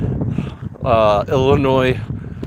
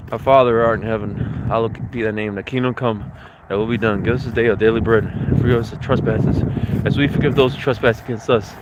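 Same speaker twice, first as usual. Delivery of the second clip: earnest spoken prayer; 2 semitones lower than usual. Real, not acted. Leads a prayer.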